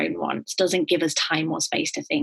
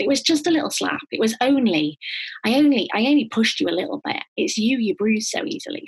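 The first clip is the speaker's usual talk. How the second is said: minimizing abuser; 5 semitones higher than usual. Retold or imitated. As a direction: wave it away like it was nothing.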